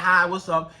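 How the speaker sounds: low-pitched, dry greeting; indifferent. Acted. Woman repeating her sample reply to the man, indifferent. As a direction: toss it off like you don't care. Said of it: "act like you don't even care".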